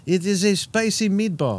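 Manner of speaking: careful, slow, half-hearted Italian accent; attempted Italian accent. Shown as a demonstration. Reluctant comic trying it on request, weak Italian accent. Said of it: "That's Southern Italian. That's Sicily".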